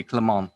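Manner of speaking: "Clement" as kluh-MON, ending silent; no final T. Shown as a demonstration. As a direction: say "Clement" the French way, dropping the T. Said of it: "with no T".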